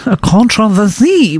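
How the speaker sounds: mock French pronunciation of controversy, stress on the last syllable; bad French accent. Shown as a demonstration. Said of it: "how you say controversy with a bad French accent".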